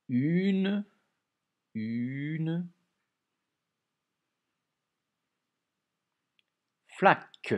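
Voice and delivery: loud, stretched dictation of "flaque"; dictation voice, syllables drawn out. Shown as a demonstration. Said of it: "deux syllabes dans flaque".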